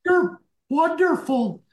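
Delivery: mock-sweet compliments to the girlfriend. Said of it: "he's looking into her eyes".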